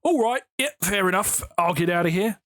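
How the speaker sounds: breezy, instant retreat; lightly voiced doorstep salesman backing off; salesman giving up. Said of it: "They will go".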